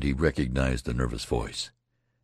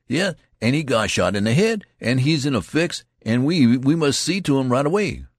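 louder, higher urgent plea; hasty interruption; 9 semitones higher, 6 dB louder than usual. Acted. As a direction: cut in to protect your friend. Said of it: "interrupted hastily".

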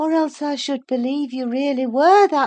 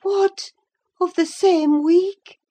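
high, loud disbelief; incredulous outburst; astonished exclamation; 13 semitones higher, 7 dB louder than usual. A narrator's reading. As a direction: exclaim in shock, voice leaping up. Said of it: "she exclaimed".

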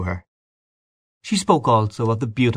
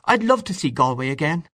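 excited; 7 semitones higher than usual. A narrator's reading. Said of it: "clasped her hands excitedly".

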